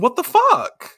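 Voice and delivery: high, loud baffled outburst; acted outrage. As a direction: play exasperated disbelief at a high pitch. Ray baffled as friend runs off.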